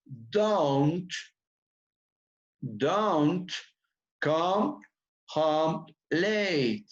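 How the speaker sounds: Don't come home late, drawn out word by word; slow repetition for the class; pronunciation drill. Shown as a demonstration. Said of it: "cómo se pronuncia".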